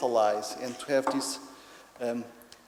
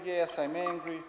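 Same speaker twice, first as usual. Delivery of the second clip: raised, lightly voiced child; little boy; 4 semitones higher than usual. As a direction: answer daddy as a cross toddler, lightly. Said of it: "continue in this interaction".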